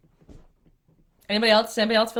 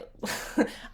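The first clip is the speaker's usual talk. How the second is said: soft breathy laugh; 6 dB quieter than usual. Real, not acted. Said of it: "I'm laughing".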